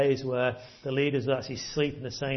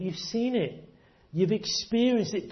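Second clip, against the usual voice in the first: voicing Jesus a little higher, earnest; Jesus pleading; 5 semitones higher than usual. Jesus urging his disciples in the huddle, higher and earnest. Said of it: "Jesus is saying to them".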